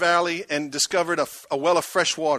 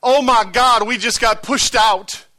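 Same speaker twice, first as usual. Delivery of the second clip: high, loud, slow panicked wail; mock panic; 5 semitones higher, 8 dB louder, slower than usual. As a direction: play the panicking believer, overdone. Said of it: "Or you can make this statement".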